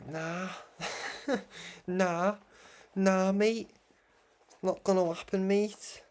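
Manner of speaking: playful Scouse brush-off; Scouse accent. Acted. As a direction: dismiss it in a Liverpool accent. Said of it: "my little Scouse accent there".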